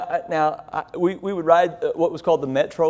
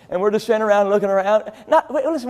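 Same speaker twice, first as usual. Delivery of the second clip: normal talking voice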